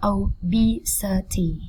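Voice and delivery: "Obesity" split into syllables with BE hit hardest; spaced-out "Obesity", stressed o-BE-si-ty. Shown as a demonstration. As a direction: punch the second syllable, BE, in "Obesity". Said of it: "âm tiết B".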